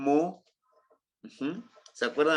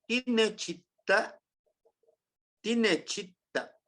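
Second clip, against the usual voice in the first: slow model word; 7 semitones higher, slower than usual. Shown as a demonstration. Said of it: "si lo juntamos".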